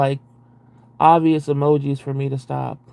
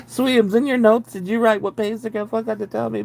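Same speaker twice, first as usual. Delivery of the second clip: laughing plea; 5 semitones higher than usual. Real, not acted. Calling to partner, laughing.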